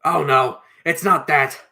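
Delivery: loud, breathless interjection. Acted. Mister Bold as the tunnel rumbles, breathless and loud. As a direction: say it loudly, as if short of breath. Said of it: "said Mister Bold breathlessly".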